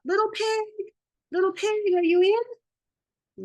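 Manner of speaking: high sing-song call, slow at the end. Retold or imitated. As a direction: call sweetly through the door. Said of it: "so I called out".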